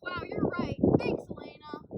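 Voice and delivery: hammed-up amazement. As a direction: play the amazement big and high. Scripted amazed reply.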